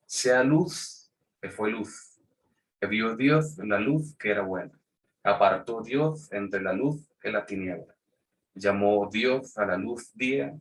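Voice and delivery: put-on old Castilian reading, z-sounds for every s; Andalusian Spanish accent. Shown as a demonstration. Teacher reads Genesis to the class in an Andalusian accent. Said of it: "me perdonan, pues, si les parece bobo o feo o grotesco lo que voy a hacer".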